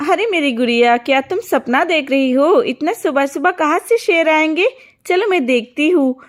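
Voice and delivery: put-on a mother soothing her little girl; mother humoring the daughter's dream; doubting mother. Mother voiced, disbelieving.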